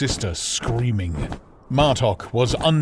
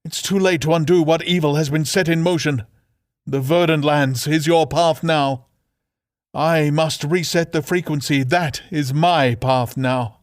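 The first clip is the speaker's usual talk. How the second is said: solemn farewell; 6 semitones higher, 4 dB louder than usual. Acted. Sister's solemn farewell speech.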